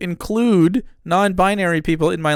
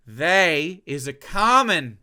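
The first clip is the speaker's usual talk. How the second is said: slow, slight southern accent; 4 semitones lower, slower than usual. Real, not acted. Explaining they as a pronoun, in an accidental southern accent. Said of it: "I don't know why I'm doing a southern accent now".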